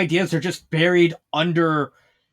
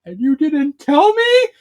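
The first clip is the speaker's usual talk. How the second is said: higher, slow indignant question; mock outrage; 9 semitones higher, 4 dB louder, slower than usual. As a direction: play it half-hearted betrayed. Kaguya learns of the deaths.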